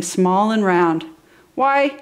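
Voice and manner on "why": cried out. Acted. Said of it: "he cried".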